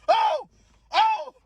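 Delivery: two high, loud comic wails; mock pained scream. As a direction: re-enact crying out as if shot. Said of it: "I'm like".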